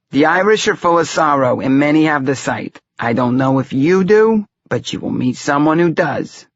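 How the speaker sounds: high-pitched Romany seer; prophesy in a high, heavy Romany accent; thick Romany accent. A narrator's reading. Fortune-teller tells the young man of the sight, Romany accent. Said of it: "talked in a thick Romany accent".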